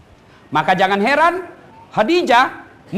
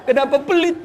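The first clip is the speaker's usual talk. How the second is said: gossiping wife; 5 semitones higher than usual. Retold or imitated. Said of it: "Dia ke tetangganya".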